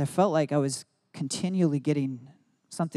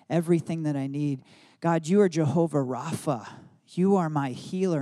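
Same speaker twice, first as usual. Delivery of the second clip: earnest prayer. Shown as a demonstration. Prays declarations aloud.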